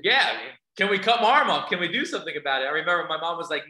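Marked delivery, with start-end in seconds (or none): 0.0-2.7 louder, higher insisting; teen repeating the request to stunned parents, insistent. Retold or imitated. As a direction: push the question harder the second time. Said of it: "And I said".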